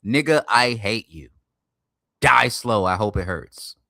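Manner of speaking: mild, deliberate show of hatred; open hatred. Shown as a demonstration. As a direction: say it slowly and plainly to their face. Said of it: "watch this".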